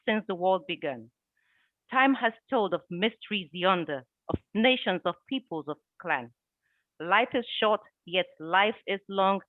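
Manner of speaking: measured recital of one's own verse; spoken verse delivery; poem recitation. Acted. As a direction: recite it in phrases with pauses between. Recites own poem about time.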